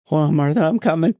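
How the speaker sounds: hammed-up sitcom heart attack; a loose Redd Foxx bit; Redd Foxx impression. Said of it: "I'm like Red Fox".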